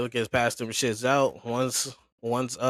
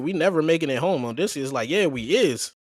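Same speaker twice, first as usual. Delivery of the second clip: heated crew argument; 4 semitones higher, 4 dB louder than usual. Retold or imitated. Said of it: "He's like".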